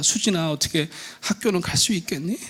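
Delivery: soft, tentative question; cautious mother. Acted. Mother asking at breakfast about school, soft and cautious. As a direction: ask carefully, keeping it small. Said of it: "아침에 밥을 챙겨주면서 물어봅니다".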